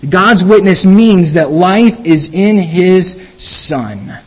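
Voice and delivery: slowed right down, every word leaned on; slow emphatic restatement. Shown as a demonstration. Preacher restating his point to the congregation, slow and emphatic. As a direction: spell it out slowly so the congregation cannot miss it. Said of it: "That's the meaning".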